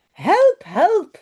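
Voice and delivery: high, loud cry of help; panicked call, high and loud. Acted. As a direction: shout for help as you run for the train. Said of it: "roept ze".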